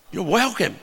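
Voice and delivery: a light Australian-accent "No worries, mate"; easygoing Australian accent, lightly done; Aussie way. Shown as a demonstration. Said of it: "That's what you'd say in Aussie".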